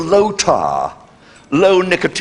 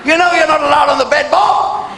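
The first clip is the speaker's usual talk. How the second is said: wife yelling at dog; 10 semitones higher than usual. Retold or imitated. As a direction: bellow at Bob like a fed-up wife. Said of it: "She's going".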